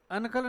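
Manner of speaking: अनकल said an-kal, with a clear n; wrong split pronunciation. Shown as a demonstration. Teacher showing class the wrong way, clear n. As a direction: demo the mistake: अनकल with a dental n. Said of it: "अनकल नहीं है".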